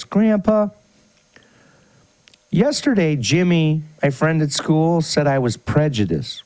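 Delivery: put-on high childlike boy voice; little boy voice. Grandson telling grandpa, in a high little boy voice. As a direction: pitch up into a young boy.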